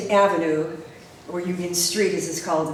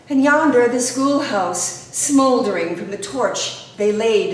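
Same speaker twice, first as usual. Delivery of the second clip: solemn, emphatic verse reading; poem recitation; 3 dB louder than usual. Acted. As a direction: recite the war poem with measured drama.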